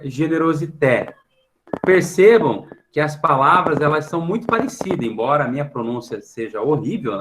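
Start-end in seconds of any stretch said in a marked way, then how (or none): 0.0-1.2 "generosité" said slowly in French, stress on the final té; French pronunciation. Shown as a demonstration. Teacher reading the French word aloud, French pronunciation. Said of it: "francês é".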